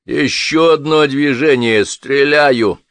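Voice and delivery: man by the stove threatens the soldier with a hoarse shout. A narrator's reading. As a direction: bark the warning with a hoarse rasp. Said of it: "хриплым голосом крикнул тот".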